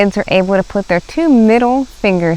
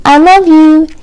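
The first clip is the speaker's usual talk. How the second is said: put-on gentle child goodbye; 7 semitones higher, 8 dB louder than usual. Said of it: "with a gentle goodbye".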